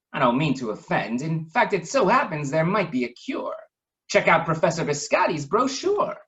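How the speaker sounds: lightly voiced baron, rising eager; a hint of a helpful baron; Baron von Waffle going on. Waffle suggests a cure to his friends, lightly voiced. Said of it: "Waffle went on".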